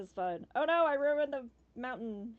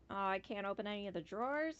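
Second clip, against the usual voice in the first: ordinary talk, nothing marked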